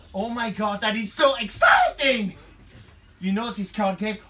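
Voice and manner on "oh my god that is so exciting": put-on gushing English girl. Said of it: "Kate, l'anglaise".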